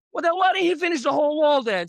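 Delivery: high, fast, loud baffled question; husband quizzing the painter, high and incredulous. Retold or imitated. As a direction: voice the husband squeaking his suspicion.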